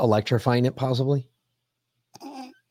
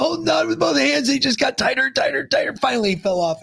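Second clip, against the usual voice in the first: excited retelling; 13 semitones higher than usual. Real, not acted. Laughing retelling of the shock.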